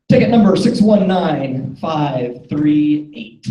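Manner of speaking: slow, drawn-out number call; raffle caller. Real, not acted. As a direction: call each digit out slowly.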